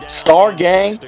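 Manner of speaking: high call from across a park; high, distant-sounding call; distant gang call. Retold or imitated. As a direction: call out the name like someone searching. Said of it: "All I hear is".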